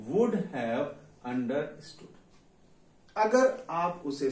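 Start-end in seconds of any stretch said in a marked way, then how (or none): 0.1-2.2 slow dictation. Shown as a demonstration. Teacher dictating the English sentence.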